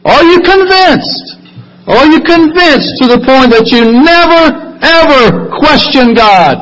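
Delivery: rising preaching fervor. Acted. Preacher challenges congregation, climax.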